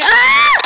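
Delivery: sudden high-pitched scream. Real, not acted. Player reacting mid-fight, high scream. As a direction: let out a short, high yelp. Startled scream during the game.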